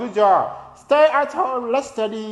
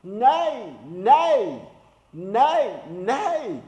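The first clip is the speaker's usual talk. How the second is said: lightly voiced horse neigh; much slower than usual. Shown as a demonstration. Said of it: "How does horse say?".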